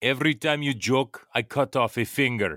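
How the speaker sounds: amateur attempted Russian accent. For a movie-guessing game, the speaker quotes a russian addressing a secret agent: attempted russian accent. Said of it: "This is my best Russian".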